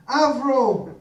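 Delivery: loud call to the crowd; shouted cue for the audience. Real, not acted. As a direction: call it out so the room answers. Leading a crowd call-and-response.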